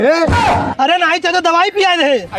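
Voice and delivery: drawn-out, slow and laughing; slow sheepish correction. Acted. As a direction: take it back slowly with a laugh. Son corrects himself slowly.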